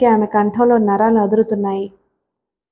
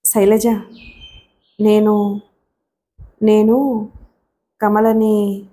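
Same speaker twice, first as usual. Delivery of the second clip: drawn-out words with long, weighted pauses; intense, halting; much slower than usual. A narrator's reading. Raghu struggling to confess to Shailaja about Kamala, intense and halting. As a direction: halt after each word, struggling to get it out. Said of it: "Raghu కంఠం తీవ్రంగా పలికింది".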